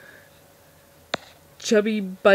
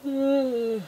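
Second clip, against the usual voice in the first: T-Rex yawn groan; 4 semitones higher, 4 dB quieter than usual. Retold or imitated. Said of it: "I'll start yawning like that".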